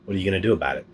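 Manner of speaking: talking through a mouthful of tomato; mouth full. Real, not acted. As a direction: chew while you talk. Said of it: "talk with my mouth full".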